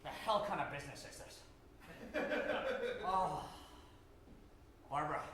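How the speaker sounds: imperious plummy grande dame. Acted. Ted alone in dressing room.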